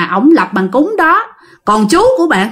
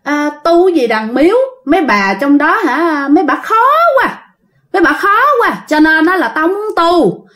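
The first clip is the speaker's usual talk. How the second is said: higher-pitched, lightly acted defiance; voiced defiant possessed uncle; 5 semitones higher than usual. Possessed uncle talking back to the shaman, lightly acted defiance. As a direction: retell the possessed man's cocky comeback in a raised pitch. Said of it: "Lúc đó chú mới trả lời".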